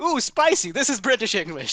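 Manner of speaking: high ooh, then pleased claim; lightly voiced smug Brit; mock delighted coloniser. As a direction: savour it like a treat. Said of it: "they're like".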